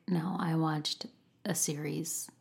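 No, I watched a series. whispered, slow; whispered correction. Real, not acted. Correcting her earlier slip to the viewers, a whispered aside. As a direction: hush it as a sheepish correction. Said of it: "realized I said".

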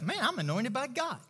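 conversational self-affirmation; self-assurance. Acted. Believer assuring himself of God's anointing, easy confidence. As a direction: say it like talking yourself into it. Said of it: "You assure yourself".

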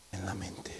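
a breathy whisper after a long pause. Real, not acted. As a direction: drop to a whisper to land the point. Preacher's dramatic answer.

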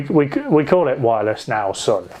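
imitating grandad's northern accent; lightly voiced northern English grandad; a touch of northern accent on an old man's words. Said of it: "in his proper northern accent".

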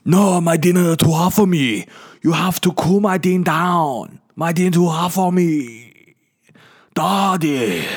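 put-on high, drawn-out wailing baby accent; imagined baby voice. Baby complaining to daddy about hot dinner, high mock wail. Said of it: "And she goes".

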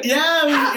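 high yelping hyena screech; hyena laugh. Retold or imitated. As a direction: imitate a screeching monkey laugh. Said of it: "like, monkey screech laugh".

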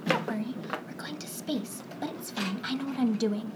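a unicorn calmly reassuring a nervous mouse; assuring voice. Acted. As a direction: settle his nerves gently. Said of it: "in an assuring voice".

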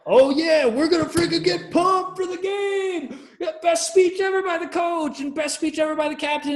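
high, loud pumped-up shouting; mock the team getting fired up; hyped-up locker room yell. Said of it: "Dumbest locker room I've ever been in".

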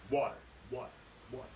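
each water fading like an echo; echo effect. Shown as a demonstration. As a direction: let it trail off into an echo. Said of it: "echo that".

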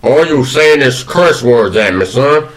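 lightly voiced Southern gentleman; a hint of old Southern drawl; Colonel Sanders. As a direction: try on a folksy Kentucky colonel. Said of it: "who is Colonel Sanders".

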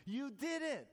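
high-pitched cheer of amazement; excited shout. A narrator's reading. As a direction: shout it out as the thrilled billionaire. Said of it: "shouted the billionaire".

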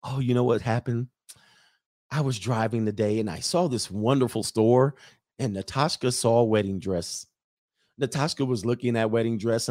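lightly imitated foreign girlfriend's accent, wistful; Natasha's accent. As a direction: tell it longingly in her mock accent. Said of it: "then she would say".

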